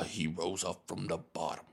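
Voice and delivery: lightly voiced movie underdog; mock heroic underdog. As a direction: parody an actor's triumph line. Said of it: "he's like a slave in this movie".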